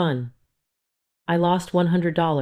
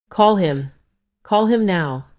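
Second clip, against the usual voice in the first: sharp, loud order; angry demand; 3 semitones higher, 4 dB louder, slower than usual. A narrator's reading. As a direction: demand it furiously. Furious mother demands the call.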